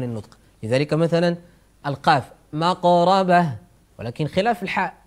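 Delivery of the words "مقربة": "مقربة" with a brief ق and qalqala release; short stop on ق. Shown as a demonstration. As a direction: keep the ق in "مقربة" short, bouncing straight off it. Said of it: "الحروف الشديدة تكون قصيرة زمن النطق".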